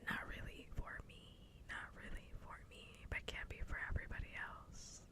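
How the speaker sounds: hushed, voiceless whisper; whispered aside. Real, not acted. Streamer qualifying an opinion to viewers, whispered aside.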